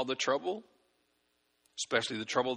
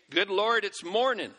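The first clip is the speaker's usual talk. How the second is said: higher and louder, like a startled waking groan; mock morning exclamation; 7 semitones higher, 4 dB louder than usual. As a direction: act out a groggy wake-up cry to God. Acting a groggy morning prayer.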